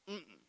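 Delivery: closed-mouth sulky grunt. Retold or imitated. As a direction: grunt it like a sulking boy. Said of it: "Just grunt, grunt".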